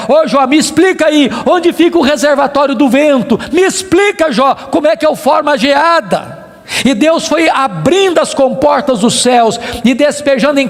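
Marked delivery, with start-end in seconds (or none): 0.1-6.5 raised, insistent questioning; challenging. Acted. God demanding answers from Job, challenging. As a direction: press each question harder, pitched up.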